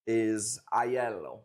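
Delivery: Aiello said slowly as eye-ELL-oh; slow careful Aiello; Aiello pronounced. Shown as a demonstration. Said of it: "we pronounce it Alio".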